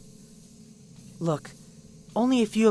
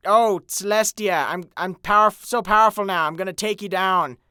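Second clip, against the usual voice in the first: mocking villain; 5 dB louder than usual. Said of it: "he'd be like".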